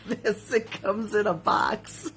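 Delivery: slow, laughing repeat. Real, not acted. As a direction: chuckle through the repeat. Repeating it comes in box, laughing.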